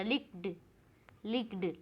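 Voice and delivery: "लिक्ड" as one short syllable; no "id" ending. Shown as a demonstration. Teacher tests the word for the class, "लिक्ड" with no id syllable. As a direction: close "लिक्ड" straight from k into d. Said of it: "आईडी नहीं है".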